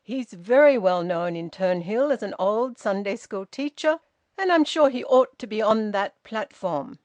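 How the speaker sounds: loud, clipped authority; every word exact, above the local folk; precise and haughty. A narrator's reading. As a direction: Hilda lecturing the policeman, loud and haughty. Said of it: "her precise and haughty voice".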